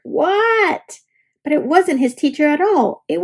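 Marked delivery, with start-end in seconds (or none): 0.0-1.0 startled what. A narrator's reading. Froggy waking.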